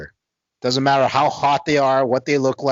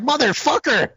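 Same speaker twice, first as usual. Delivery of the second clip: high-pitched frustrated curse; dismayed curse. Retold or imitated. Guy realizing he cockblocked himself, high dismayed curse. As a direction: yelp it in self-disgust. Realizing he blew his chance.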